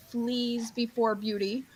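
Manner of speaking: slow, soft put-on aside; the Grinch. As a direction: draw it out softly and theatrically. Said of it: "the Grinch goes".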